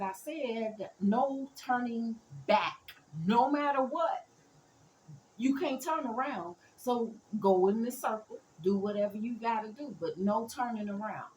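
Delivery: mock divine command, loud and insistent; booming command. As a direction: lay down the law like a voice from above. God's command retold firmly.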